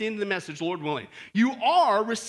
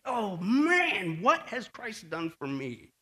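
awed reflection; 2 semitones lower, much slower than usual. Acted. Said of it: "just stop for a second and just say".

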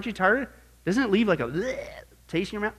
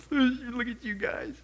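God speaking; 4 dB quieter than usual. Retold or imitated. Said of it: "and he's laughing".

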